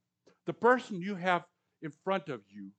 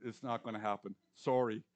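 ordinary talk, nothing marked

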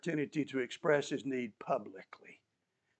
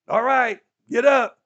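encouraging; 6 semitones higher, 12 dB louder than usual. Retold or imitated. Crowd now urging the beggar.

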